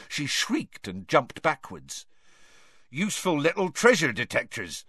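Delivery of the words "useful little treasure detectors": happy. A narrator's reading. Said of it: "said Hagrid happily".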